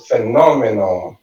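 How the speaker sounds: phenomenon with NOM as the strong syllable; stress on NON. Shown as a demonstration. Teacher practising English stress, phenomenon said phe-NOM-enon. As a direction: punch the second syllable of phenomenon. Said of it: "preciso falar ela mais forte".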